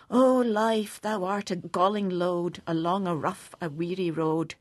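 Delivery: measured, mournful reading of a gloomy ode; poem recitation. Acted. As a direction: recite it like a solemn lament.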